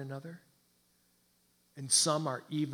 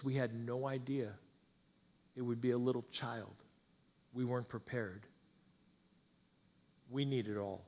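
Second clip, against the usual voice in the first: put-on understated, subdued old doctor; grave admission; 3 semitones lower, 3 dB quieter than usual. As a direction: break hard news gently, voice sinking lower by the end. Old doctor's smile fades, breaking news.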